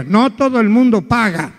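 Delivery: put-on low, slow little old lady voice; sly old grandmother telling her trick; grandma voice. Grandma punchline.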